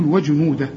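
وجنوده stopped on a still h; pausal form. Shown as a demonstration. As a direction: end وجنوده without the long final vowel. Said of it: "لكن إذا وقفت تقول".

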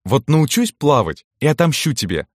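playful high-pitched threat; squealing. A narrator's reading. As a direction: squeal it lightly, without real shouting. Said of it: "визжала она".

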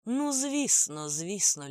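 effusive, drawn-out assent, starting high and loud; smiling through tears. A narrator's reading. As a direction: agree slowly and expansively with a smile. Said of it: "усміхнувся він, витираючи сльози".

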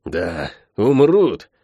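slow, easy, offhand; lightly agreeing. Acted. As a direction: shrug it off lightly. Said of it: "легко согласилась с ним проклятая".

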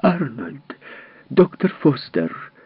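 high, slow, insistent calling out; piercing, insistent call. Acted. Wife calls down to the basement, piercing. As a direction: call them both sharply from the stairs. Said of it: "пронзительный и настойчивый".

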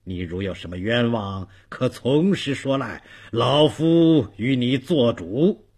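lightly voiced magistrate, measured and paternal; a hint of official gravity, reassuring an old petitioner; benevolent magistrate. (略带官腔、宽厚的包公)

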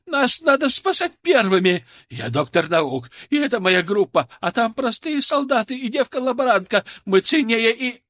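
a pompous coward screeching his rank; shrill entitled rant. A narrator's reading. Fat scientist demanding rescue first, shrieking. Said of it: "продолжал визжать толстяк".

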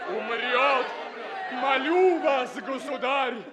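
urgent plea. Acted. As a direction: implore the emperor. Prince begs the emperor.

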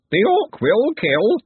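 high, very drawn-out screech; third creature voice. A narrator's reading. Third bird creature warning of the orc, screeching. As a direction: stretch the warning into a slow screech. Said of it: "said a third voice".

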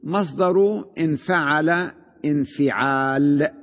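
مصدر انفعل انفعال said slowly, each word set apart; teacher spelling out مصدر انفعل انفعال; slow dictation. Shown as a demonstration. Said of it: "مصدر ما كان على خمسة أحرف".

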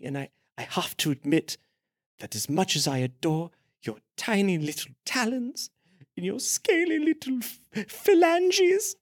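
soft, halting confession; hushed, hammed-up adoration; lovestruck priest. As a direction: savour the words, with long pauses. Priest confessing love for feet.

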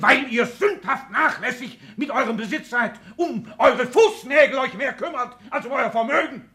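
mock them through your laughter; scornful laughing. Father scolding his careless heirs, laughing with scorn.

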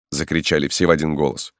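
ordinary delivery

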